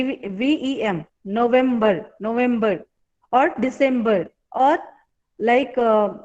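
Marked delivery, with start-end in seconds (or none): 1.2-2.8 November stressed on vem. Shown as a demonstration. Teacher repeating November for the class. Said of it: "It is on vem".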